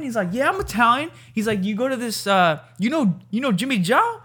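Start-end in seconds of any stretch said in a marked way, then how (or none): 0.3-1.1 high, excited Italian-American greeting. Retold or imitated. Retelling a TikTok of Italians meeting, high Italian-American voice. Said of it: "Italians running into each other". 1.6-4.2 high, excited Italian-American greeting. Retold or imitated. Retelling a TikTok of Italians meeting, high Italian-American voice. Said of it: "Italians running into each other".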